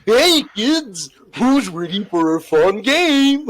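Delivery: high, giggly creep voice; creepy predator voice. Acted. Friend redoes creep voice on request, high and giggly. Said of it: "tu refais ta voix de pédo".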